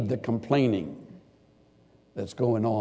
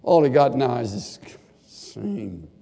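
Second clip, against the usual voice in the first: gritted teeth. Acted. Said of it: "kind of with gritted teeth".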